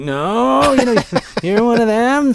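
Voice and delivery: high, loud put-on American voice; the villain passing himself off as American, high and loud; American accent impression. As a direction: play Rickman's villain faking an American. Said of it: "he's like".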